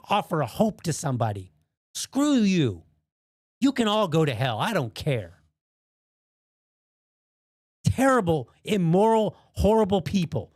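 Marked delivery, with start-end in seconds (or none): 1.9-5.4 angry outburst. Real, not acted. Telling off online critics, fed up and angry. 7.8-10.5 furious shout. Real, not acted. Shouting insults at the critics, truly furious. Angry outburst at online critics.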